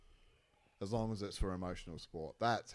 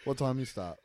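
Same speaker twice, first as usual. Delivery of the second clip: louder, higher rapid-fire questions; loud mock distraction; 3 semitones higher, 8 dB louder than usual. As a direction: keep him talking, hammed up.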